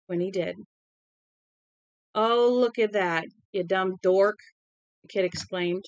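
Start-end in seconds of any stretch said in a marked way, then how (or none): 2.1-4.4 drawn-out, indignant exclamation; understated outrage, stretching the words; great outrage. Acted. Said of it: "His tone was one of a great outrage".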